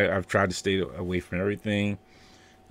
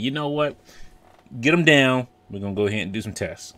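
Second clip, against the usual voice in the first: real villain voice; 5 semitones higher than usual. Retold or imitated. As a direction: play the ruthless villain giving orders. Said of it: "If he was a real villain".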